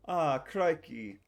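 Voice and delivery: slow, slipped-into mock Australian accent; a jokey Aussie exclamation. Streamer's British bit sliding into Australian. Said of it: "Wait, that's Australian".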